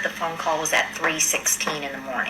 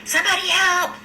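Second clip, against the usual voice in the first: retold cry for help; 13 semitones higher than usual. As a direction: call out desperately for an ambulance. Bystanders calling for help.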